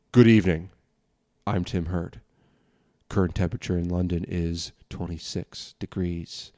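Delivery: slowed, measured newsreader delivery; slow news read. Shown as a demonstration. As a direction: read the news calmly, each phrase spaced out. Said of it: "you have to talk like this".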